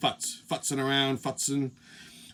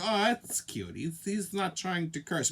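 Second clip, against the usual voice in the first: indulgent quote; 10 dB quieter than usual. Retold or imitated. Voices indulgent listeners in a quote.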